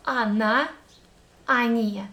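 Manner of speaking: Она and они stressed on the final syllable, "анА, анИ"; stress on the last vowel. Shown as a demonstration. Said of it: "emphasis here goes on the last".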